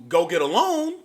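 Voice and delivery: ordinary talk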